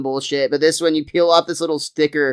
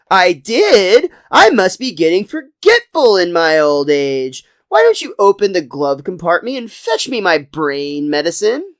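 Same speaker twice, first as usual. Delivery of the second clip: over-the-top Homer. Retold or imitated. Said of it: "his classic, like, over-the-top, exaggerated stuff".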